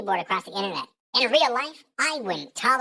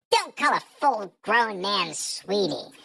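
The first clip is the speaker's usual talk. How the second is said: put-on baby voice; slower than usual. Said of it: "the baby voice".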